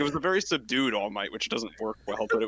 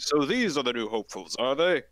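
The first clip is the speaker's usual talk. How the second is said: All Might voice. Shown as a demonstration. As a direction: lower hero voice. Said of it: "You gotta go deeper".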